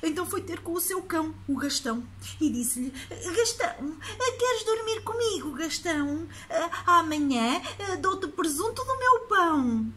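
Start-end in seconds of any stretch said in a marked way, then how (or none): 3.1-9.9 put-on child voice. Boy coaxing his dog.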